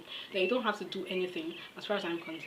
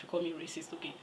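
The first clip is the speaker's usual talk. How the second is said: whisper; 6 dB quieter, faster than usual. Real, not acted. Mocking whisper.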